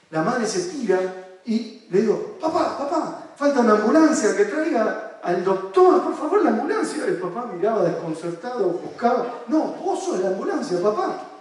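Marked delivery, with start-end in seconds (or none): 2.4-7.0 high, urgent mock call for an ambulance; hammed-up plea, much higher; pretend urgent call. Therapist to dad in the game, pretend urgent call. 9.5-11.3 playful insistence. Retold or imitated. Therapist directs dad in game.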